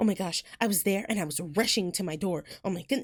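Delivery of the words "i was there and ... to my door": mock non-Southern, proper pronunciation of the word rushing. A Southerner mocking people who don't drop the G: mock non-Southern pronunciation. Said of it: "who even says like rushing".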